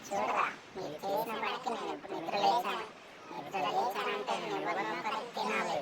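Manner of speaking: low, soft ghost threat; a hungry spirit promising to eat them; menacing ghost. Acted. The woken ghost threatens to eat the two boys, low and soft.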